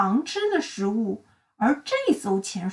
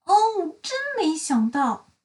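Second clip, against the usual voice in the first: astonished cry; 6 semitones higher than usual. Acted. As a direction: shout in surprise. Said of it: "快乐先生也大喊".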